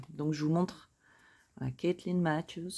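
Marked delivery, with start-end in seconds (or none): 1.7-2.7 mock English accent on Caitlin Matthews; joking English accent. Host joking to viewers about her English accent, mock English. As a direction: playfully put on English for the name, ending in a laugh. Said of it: "Non, je rigole".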